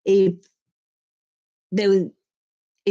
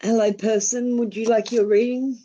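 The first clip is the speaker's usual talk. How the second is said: a raised, playful voice for a small onlooker; high sweet greeting; 6 semitones higher than usual. Real, not acted. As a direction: greet them in a higher, sing-song voice, gently teasing. Greeting a watching pet or onlooker.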